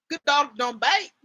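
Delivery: lightly faked Irish accent; Angel's Irish accent. Shown as a demonstration. Reading an Angel line aloud, badly faked Irish accent. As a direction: try a rough, mock Irish accent. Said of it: "let me go find an an-, a angel line".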